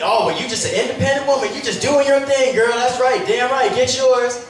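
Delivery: put-on hype girlfriend. Friend cheering on the independent woman, mock hype. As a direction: lightly hype her up like a girlfriend.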